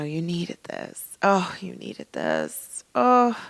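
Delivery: soft, slow sultry purr. Retold or imitated. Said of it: "in her sultry voice".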